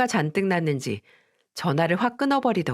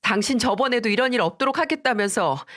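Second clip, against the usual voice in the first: higher, tearful angry outburst at her husband; higher furious ultimatum; angry shout; 4 semitones higher than usual. Acted. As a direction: snap at him through tears. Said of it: "화가 나서 소리쳤습니다".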